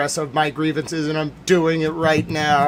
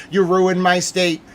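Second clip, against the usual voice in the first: accusing shout; 3 semitones higher, 6 dB louder than usual. Acted. Acted message shouted.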